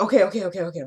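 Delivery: mild imitation of scared compliance; retold fear. Randall complying at gunpoint, mock scared. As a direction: reel off the okays like a frightened man giving in. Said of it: "he was really scared".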